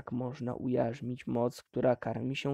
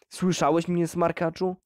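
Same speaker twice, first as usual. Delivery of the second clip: put-on loud drunk shout at his son; father shouting; 2 semitones higher, 3 dB louder than usual. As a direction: yell it across the table. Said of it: "krzyczał ojciec".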